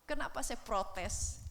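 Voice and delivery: cries out, then slows into a plaintive question; a tearful protest to God; retold tearful cry. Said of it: "saya nangis".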